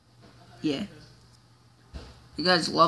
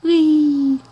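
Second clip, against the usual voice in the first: higher, louder joyful squeal; gleeful whee; 8 semitones higher, 7 dB louder than usual. Real, not acted. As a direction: squeal with delight as you speed. Driving wildly in game.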